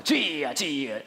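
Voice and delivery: 기도회식으로 길게 외치는 주여; mock prayer-meeting call, drawn out. Shown as a demonstration. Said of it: "주여 삼 장 다음엔 방언 그루브". (통성기도 전 주여 삼창 흉내)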